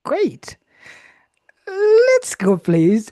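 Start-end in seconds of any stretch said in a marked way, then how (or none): 1.7-3.1 loud, high-pitched host's call; rallying call. Real, not acted. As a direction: call the next speakers up with loud energy. Host rallying next speakers.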